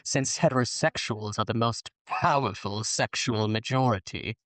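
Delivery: a hint of perfume-ad allure; sultry voice. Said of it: "I'm doing the sultry voice for heterosexuality".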